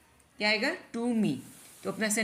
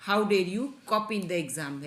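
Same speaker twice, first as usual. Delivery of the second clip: a slow, stern teacher's rebuke, lightly played; mock teacher scolding; much slower than usual. Shown as a demonstration. Teacher scolding a student caught copying, mildly stern. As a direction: scold the cheating pupil, slowly. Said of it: "teachers भी डांटते हैं, उसी तरह से है ये sentence".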